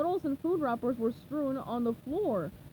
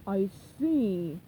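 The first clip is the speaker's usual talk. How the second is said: deep pirate captain; 4 semitones lower than usual. Acted. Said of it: "Captain Cruel said".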